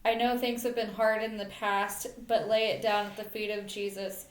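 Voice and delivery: measured poem recital in short phrases; earnest spoken verse; poem reading. Real, not acted. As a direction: read your own poem aloud, line by line. Reads second poem aloud.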